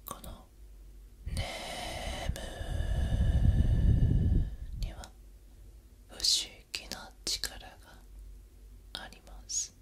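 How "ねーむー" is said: very slow drawn-out whisper; right in your ear. Acted. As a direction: breathe the word out slowly, close to the ear. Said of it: "ささやいてゆきます".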